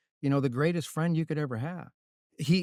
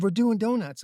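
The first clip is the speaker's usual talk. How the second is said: imitated Italian driver, pitched up high; high Italian-accented retelling; 8 semitones higher than usual. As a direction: explain it in a put-on Italian accent. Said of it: "in his Italian accent".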